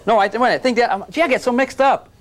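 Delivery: laughing, mock confused; real amused fluster. Real, not acted. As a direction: stumble over it with a laugh. Flustered teacher laughing at himself.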